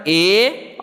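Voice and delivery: ए as one long, pure vowel; isolated teaching ए for the letters AI; AI sounded as ए. Shown as a demonstration. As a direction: hold ए as a single phonics sound. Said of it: "एआई का उच्चारण".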